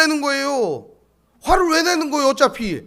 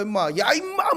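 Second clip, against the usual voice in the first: imitated angry trucker. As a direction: lightly imitate an irate trucker calling out. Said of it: "막 이러고 가면서 저한테 막 그러는 거예요". (화난 트럭 기사 흉내)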